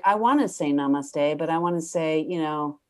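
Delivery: exasperated mock yogi, loud on the curse; a guru losing patience mid-blessing; frustrated fake namaste. She voices her own frustration with forced calm. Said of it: "It would be like".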